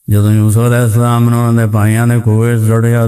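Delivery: lightly imitating a rustic cleric losing the verse; village preacher retelling. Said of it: "ایک دیہاتی مولوی تقریر کر رہا تھا". (دیہاتی مولوی کی نقل، آیت بھول کر)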